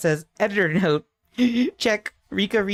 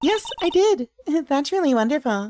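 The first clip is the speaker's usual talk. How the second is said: high-pitched put-on little child voice; 8 semitones higher than usual. Reading a game character's reply aloud, attempting a child voice. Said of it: "I cannot do a child voice".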